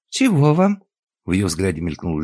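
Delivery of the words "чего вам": put-on old woman, curt. A narrator's reading. Old woman answers stranger.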